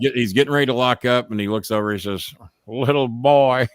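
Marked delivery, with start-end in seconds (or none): 2.6-3.7 slow drawn-out menacing taunt; slow wrestling heel taunt; taunting wrestler. Retold or imitated. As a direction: drag out little boy like a bully. Funk taunting in retold story.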